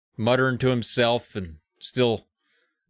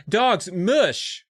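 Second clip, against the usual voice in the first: mock yell; 8 semitones higher, much slower than usual. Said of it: "yelling at the dogs".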